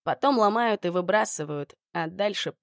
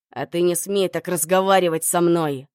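barked; 5 dB louder than usual. Acted. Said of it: "рявкнул он".

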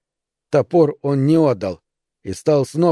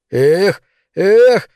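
rising high shrieks, louder on the second; shrieking; 6 semitones higher, 5 dB louder than usual. Acted. Neil shrieking in frenzy at the darkness, high yelps. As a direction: yelp it out high and frantic. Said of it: "визжал он".

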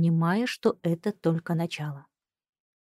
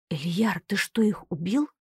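disbelieving whisper. Acted. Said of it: "спросила я с недоверием в голосе". (недоверчивым шёпотом)

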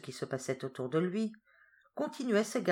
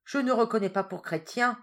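Lucifer answering, higher and louder; a defiant devil, lightly voiced; Lucifer's reply; 6 semitones higher, 5 dB louder than usual. A narrator's reading. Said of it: "répliqua Lucifer en roulant des yeux". (Lucifer répond avec défi, voix haussée)

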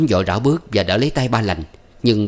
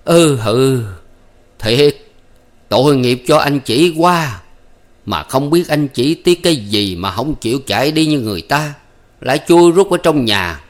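sighing sadly; 5 semitones higher, 4 dB louder than usual. A narrator's reading. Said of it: "thở dài".

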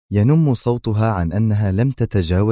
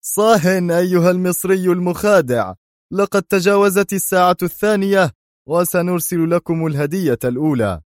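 much higher mocking shout; 10 semitones higher, 3 dB louder than usual. A narrator's reading. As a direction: cut him off with a yell. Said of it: "قاطعه نافون صائحا". (صياح بصوت أعلى بكثير)

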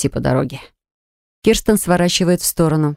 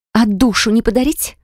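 higher sarcastic jab; mocking, raised pitch; sarcastic retort; 5 semitones higher than usual.

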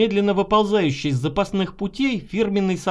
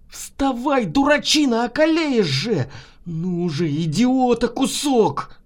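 raised, scolding yell; scolding shout; 4 semitones higher, slower than usual. A narrator's reading. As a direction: yell him awake, exasperated. Yelling at the drunk doctor.

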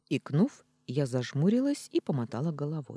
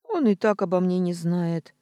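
1 snort; 5 semitones higher, 7 dB louder than usual. Acted. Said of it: "фыркнула я".

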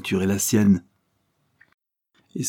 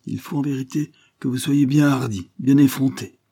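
higher, rising into louder scorn; vehement; 4 semitones higher, 4 dB louder than usual. Acted. Lady Levison accuses her husband with vehemence. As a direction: hurl each accusation harder. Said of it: "continua-t-elle avec véhémence".

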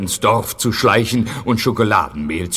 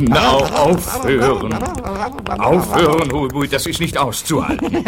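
annoyed pleading; 4 semitones higher than usual. Acted. Annoyed by the chattering noise.

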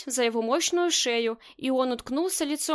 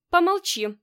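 sharp order, raised; commanding hush; 6 semitones higher, 4 dB louder than usual. A narrator's reading. Marina silences Rosen, sharp command. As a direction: cut him off with a command. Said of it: "приказала Марина".

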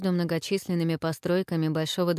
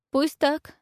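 meek agreement; 9 semitones higher, 4 dB louder than usual. Acted. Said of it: "покорно согласился Феофан".

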